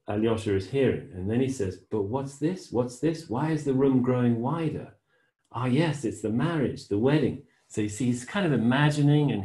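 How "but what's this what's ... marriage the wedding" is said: unhurried reading of a novel passage, lightly voiced; story reading. A narrator's reading. Teacher reading the novel to the class, in an even story voice. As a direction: read the passage as if hearing it unfold. Reads Alyosha's vision aloud.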